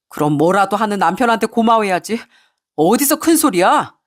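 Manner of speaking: acted husband turning the blame round; mildly angry, defensive retort; indignant anger. Husband snaps back at his wife when caught out, indignant. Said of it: "적반하장으로 저에게 화를 내기 시작하더군요".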